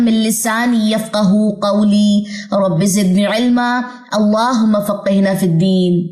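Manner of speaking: slow, measured dua recitation; recited prayer. Acted. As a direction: intone the prayer slowly and reverently. Opening Quranic dua recited.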